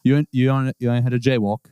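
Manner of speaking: cockney rocker showing off; cockney swagger. Acted. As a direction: brag like a London geezer. Player voices Jaywalk, cockney.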